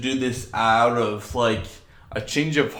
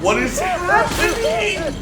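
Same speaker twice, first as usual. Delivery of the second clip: high, slow, stunned; stunned disbelief; 5 dB louder than usual. Real, not acted. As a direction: ask in total bafflement.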